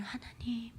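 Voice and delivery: very quiet, halting whisper to God; secret hushed prayer. Shown as a demonstration. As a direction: pray under your breath in hiding. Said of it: "그분들은".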